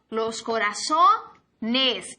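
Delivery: los corazones said slowly and clearly; slow model word. Shown as a demonstration. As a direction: drag out corazones so they hear it. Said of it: "El corazón". ("corazones" dicho despacio y claro)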